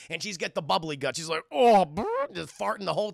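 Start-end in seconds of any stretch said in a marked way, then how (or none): 1.5-1.8 loud, higher acted "oh"; mock pained groan. Exhibitor hit by the poisoned coffee, mock loud groan. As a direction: groan at a sudden gut pang.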